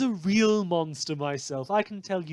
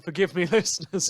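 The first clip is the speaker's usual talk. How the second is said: laughing; 3 semitones higher, 6 dB louder than usual. Real, not acted. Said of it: "if I almost laugh at that".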